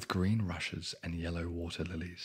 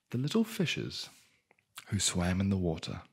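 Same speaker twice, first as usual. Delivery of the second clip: sing-song voice; 5 dB louder than usual. Real, not acted. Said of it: "why am I doing that?".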